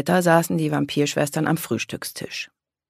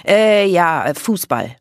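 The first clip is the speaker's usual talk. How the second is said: loud, high "Äh" dropping back to usual; sheepish grin; 4 semitones higher, 7 dB louder than usual. A narrator's reading. Daka caught out by her sister, sheepish. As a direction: cover a slip with a crooked grin. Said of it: "Daka grinste schief".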